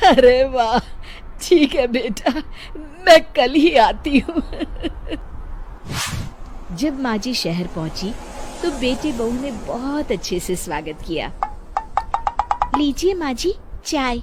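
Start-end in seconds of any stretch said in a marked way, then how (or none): 0.1-4.4 higher, louder burst of joy; overjoyed grandmother-to-be, announcing it loudly; delighted mother. Acted. 12.8-14.2 daughter-in-law. Acted. Daughter-in-law serves tea.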